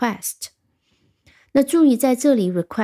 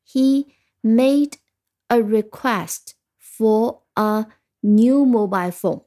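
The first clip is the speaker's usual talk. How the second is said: 1 emphatic model sentence. Shown as a demonstration. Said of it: "我们把这句句子要记下来".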